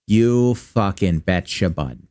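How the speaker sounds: a Midwestern buddy agreeing heartily; exaggerated Midwestern accent. Streamer celebrating loot in a Midwestern accent. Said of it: "exaggerated Midwestern accent".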